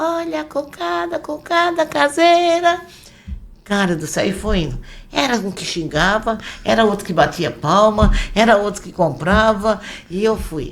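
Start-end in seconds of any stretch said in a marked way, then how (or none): 0.0-2.8 very high, slow, drawn-out street-vendor shout. Retelling starting to shout while selling homemade cocada; retelling shouting loudly. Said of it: "Aí eu comecei a gritar".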